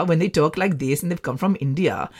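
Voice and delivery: lightly put-on Indian lilt; imitated Indian accent. Fond of how they talk in India, imitated Indian accent. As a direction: speak with a soft Indian accent. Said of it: "the Indian accent".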